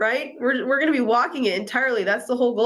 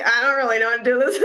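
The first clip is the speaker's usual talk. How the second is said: laughing; faster than usual. Real, not acted. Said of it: "I'm gonna laugh right now".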